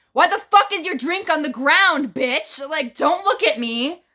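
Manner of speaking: mock outrage at the drink owners; retold snap at strangers. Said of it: "I was like".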